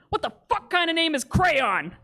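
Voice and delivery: put-on high, laughing drunk outrage; mock outraged, mishearing the name; drunk fan mishearing. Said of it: "the first guy went".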